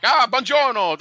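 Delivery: high, bright-voiced mock Italian clerk; Italian phone greeting. Italian airport clerk answers phone.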